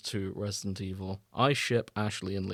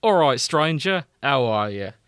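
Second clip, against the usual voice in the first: hammed-up goofy pirate accent, louder at the start; 6 dB louder than usual. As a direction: play the shopkeeper with a silly pirate accent. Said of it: "this weird, goofy pirate accent".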